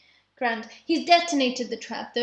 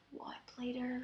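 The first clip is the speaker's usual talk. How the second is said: whispering; 18 dB quieter than usual. Real, not acted. Hushed aside during board game.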